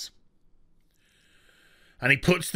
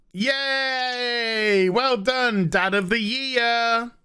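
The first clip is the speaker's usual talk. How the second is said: sarcastic cheer; 3 semitones higher, much slower than usual. Real, not acted. Sarcastic praise.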